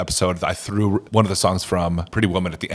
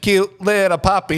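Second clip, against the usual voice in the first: cutesy voice; 9 semitones higher, slower than usual. Pretend. Mock cutesy voice repeated.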